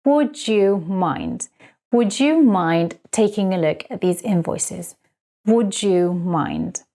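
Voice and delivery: very slow, each word drawn out; slow teaching demo. Shown as a demonstration. Teacher modelling the phrase for students, very slow. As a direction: spell out would you mind for learners. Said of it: "We start the sentence by saying".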